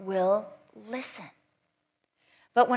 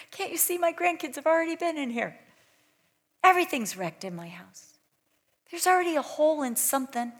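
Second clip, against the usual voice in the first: cheerful grandma host; 5 semitones higher than usual. Retold or imitated. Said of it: "You're like".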